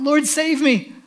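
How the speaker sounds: a touch of a sinking man's cry; cry for help. Acted. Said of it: "he cried out".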